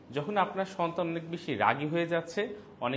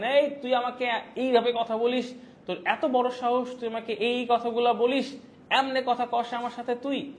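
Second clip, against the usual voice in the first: loud, higher furious scolding of a friend; angry telling-off; 9 semitones higher, 6 dB louder than usual. Retold or imitated. Scolding a friend over his bad habit, loud and angry. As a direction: tear into your friend for what he said. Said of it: "আমি ধমক দিই".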